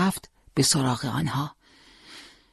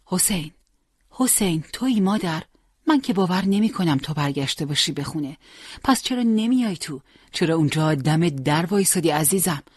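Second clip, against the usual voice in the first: mother calling her son. Acted. Mother welcoming her son Hossein home, lightly voiced tender call. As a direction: call him in like a longing mother.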